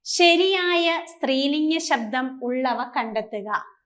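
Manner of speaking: slow, deliberate reading of the question; slow dictation. Shown as a demonstration. Teacher reading the exam question aloud to students, slow and deliberate. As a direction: read it out slowly so students can follow. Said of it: "എന്നാണ് ട്ടോ".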